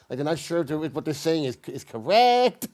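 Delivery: every phrase rising like a question; uptalk. Shown as a demonstration. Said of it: "the end of every sentence sounds like a question".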